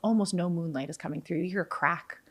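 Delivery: hushed, spooky scene-setting; game master narration. Acted. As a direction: draw the player into the dark forest. DM sets the night-forest scene.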